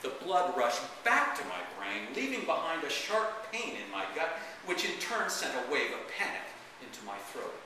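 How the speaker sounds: dramatic first-person reading; story narration. Acted. Author reads the grandpa memoir to an audience, dramatic narration. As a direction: read it as a theatrical, wry memoir.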